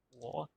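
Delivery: "wo" alargado, en tercer tono del mandarín; tercer tono chino. Shown as a demonstration. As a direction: pronuncia "wo" despacio con el tercer tono. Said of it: "tercer tono". ("wo" lento, en tercer tono)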